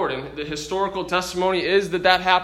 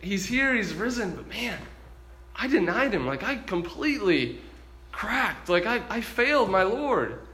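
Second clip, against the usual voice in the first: subdued, halting confession to himself; ashamed; 3 semitones higher, 5 dB quieter than usual. Retold or imitated. Peter sitting with his denial, quietly ashamed. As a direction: think it through quietly, heavy with shame. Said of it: "feeling shame".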